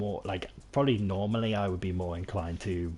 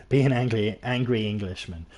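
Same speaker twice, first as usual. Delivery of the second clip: angry shout; 2 semitones higher, 7 dB louder than usual. Acted. Describing playing an angry character.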